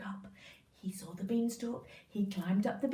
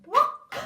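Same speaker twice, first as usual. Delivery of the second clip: high, loud pop; goose pop; 11 semitones higher, 11 dB louder than usual. Acted. Goose popping out an egg, high and loud. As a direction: squeak it out like the goose.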